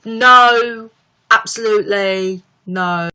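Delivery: North London accent, emphatic first word; a singer's London accent. Shown as a demonstration. Streamer demonstrating the singer's few words, North London accent. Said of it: "the only words I can really do".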